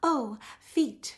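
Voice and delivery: high, happy speaking tone; smiling voice. Shown as a demonstration. Teacher shows students the smiling voice. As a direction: let the smile lift the words. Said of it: "So that smiling voice".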